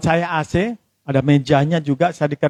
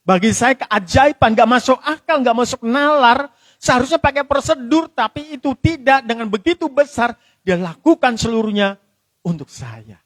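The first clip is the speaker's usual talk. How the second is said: higher-pitched, emphatic preaching; fervent testimony; 5 semitones higher than usual. Real, not acted. Preacher testifies to the congregation about a miracle, fervent. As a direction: press each phrase home in earnest wonder.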